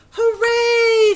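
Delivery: high, loud happy cheer; joyful cry. Acted. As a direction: shout it out with glee. Girl joyfully runs to school.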